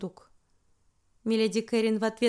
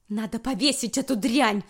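exclaiming; 3 dB louder than usual. Acted. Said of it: "воскликнула королева".

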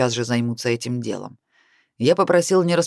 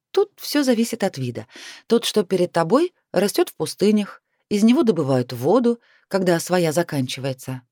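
lightly voiced heroine, higher pitch; voiced young heroine; 5 semitones higher than usual. Heroine teaching mentor about cacti, higher voice. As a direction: explain in a lifted, lively voice.

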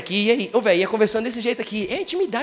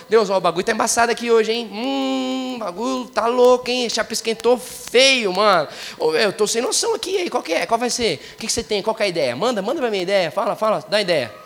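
casual chat with God. Shown as a demonstration. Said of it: "pode falar do jeito que você fala".

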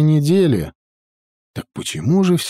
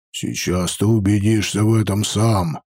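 гордый гном-воин; 5 semitones lower than usual. Acted. Хродер сурово отвечает.

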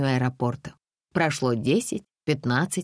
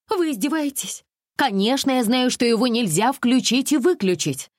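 put-on higher, insistent girlish pleading; demanding young woman; 8 semitones higher than usual. A narrator's reading. Alisa pressures the tour manager, lightly voiced and insistent. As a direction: push the manager, naive and pushy.

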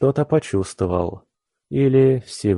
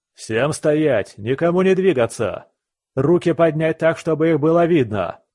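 police shout; 6 semitones higher than usual. Acted. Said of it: "раздался крик от дверей".

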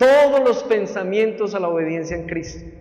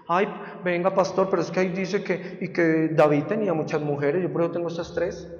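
a hint of a sly, softer excuse; mock excuse; 5 dB quieter than usual. Church member wheedles the pastor with an excuse, lightly voiced. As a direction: play the wheedling church member, a touch quieter. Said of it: "congregant twisting scripture to the pastor".

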